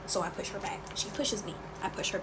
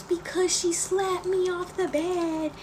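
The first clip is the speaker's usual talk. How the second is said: high, slow mock wail; drawn-out, high-pitched tattling cry; imitated crying; 10 semitones higher, 5 dB louder, slower than usual. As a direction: mimic a little sister's loud tearful complaint. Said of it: "You're crying because you fell".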